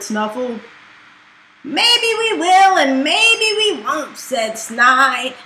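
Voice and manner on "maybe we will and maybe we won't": teasing dragon head. Acted.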